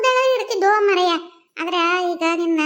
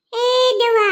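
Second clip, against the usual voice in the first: louder, higher call to the ghost; ದೆವ್ವ called out louder; 4 semitones higher, 4 dB louder than usual. Acted. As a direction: raise the voice to get ದೆವ್ವ's attention.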